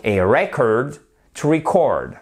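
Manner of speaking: "record" first stressed on REC, then on CORD; a RECord, to reCORD, carefully separated; stress shift demo. Shown as a demonstration. Teacher recapping for learners, "record" stressed first on REC, then on CORD. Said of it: "l'accent tonique, il change, il est sur la première syllabe ici".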